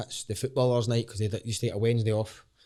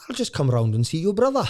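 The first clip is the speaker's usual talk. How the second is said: put-on lilting, louder Welsh accent, pitched up; 5 semitones higher, 5 dB louder than usual. Imitating the footballer friend offering to visit his brother, Welsh accent. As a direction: put on a sing-song Welsh voice. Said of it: "that's a Welsh accent I was doing".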